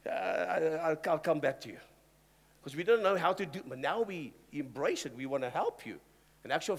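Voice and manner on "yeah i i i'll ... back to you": flustered pastor. Retold or imitated. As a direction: caught off guard and backing away. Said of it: "then we'd say".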